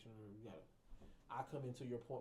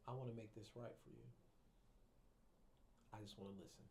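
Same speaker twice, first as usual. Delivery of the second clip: calm reassurance; 9 dB quieter than usual. Shown as a demonstration. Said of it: "real calm with my voice".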